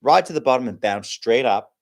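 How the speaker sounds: lightly put-on American accent for a joke. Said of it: "the American says".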